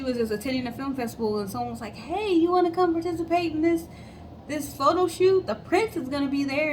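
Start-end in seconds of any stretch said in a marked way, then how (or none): 2.0-6.7 imitating a casual, higher pitched invite; tossing off the offer like it's nothing; lightly voiced eager recruiter, pitched up; breezy invitation. Someone inviting her to photo shoot.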